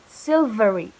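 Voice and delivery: silvery with a buzzing V; bold V. Shown as a demonstration. Teacher modelling silvery. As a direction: press the V in silvery. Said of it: "next word".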